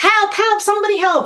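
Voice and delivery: very high-pitched, urgent scream. Showing what to do when someone is not breathing: screaming for help. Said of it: "I'm going to scream for help".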